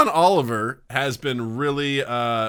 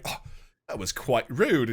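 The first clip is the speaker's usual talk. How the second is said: Benedict Cumberbatch; 2 semitones lower, 4 dB quieter than usual. Retold or imitated. Host demonstrating the polite response to a rude question, mock polite. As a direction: imitate a courteous, restrained objection. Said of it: "like, very, like, polite way".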